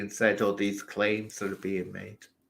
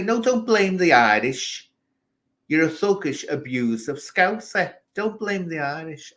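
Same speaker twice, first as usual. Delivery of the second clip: indignant retort; 6 semitones higher, 4 dB louder than usual. Retold or imitated. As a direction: scold him hard, word by word.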